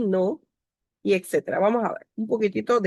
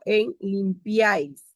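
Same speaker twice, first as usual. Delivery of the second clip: slow example; slower than usual. Shown as a demonstration. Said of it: "Por ejemplo".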